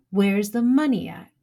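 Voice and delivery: pressing harder the second time. Retold or imitated. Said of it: "And he says it again".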